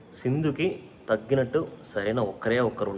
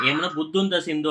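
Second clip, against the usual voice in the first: higher-pitched retold telling-off; mock scolding; 6 semitones higher than usual. Raj retells scolding his sister to his aunt, mild mock scold. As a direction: replay the scolding a notch up. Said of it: "నేను చెప్పిన అత్త".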